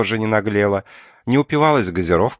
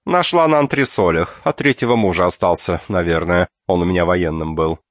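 bossy aunt. Acted. Aunt explains binoculars.

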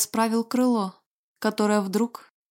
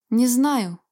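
sobbing; 2 semitones higher than usual. A narrator's reading. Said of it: "всхлипнул Мондрагон".

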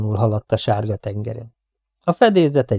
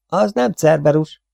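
good-natured, higher-pitched explanation; 6 semitones higher than usual. A narrator's reading. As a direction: kindly correct them, pitched up. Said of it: "magyarázta jó indulatú hangon". (jóindulatú hangon)

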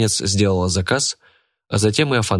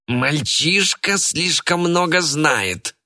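put-on creaky sinister old villain, slow; slow ominous raspy drawl; 9 semitones higher, much slower than usual. A narrator's reading. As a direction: drag it out in a rasp. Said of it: "скрипучим голосом сказал доктор Шлак".

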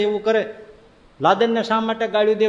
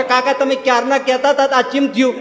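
mocking questioner; 4 semitones higher, 4 dB louder than usual. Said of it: "કોણ મને પૂછવાનું હતું કે".

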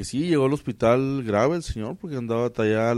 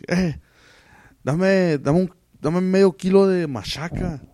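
higher, Sonora-style order that sounds angry but isn't; brusque norteño order; 6 semitones higher, slower than usual. Retold or imitated. Customer orders machaca at the aunts' shop, mock-gruff northern voice. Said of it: "parecía que estaban enojados".

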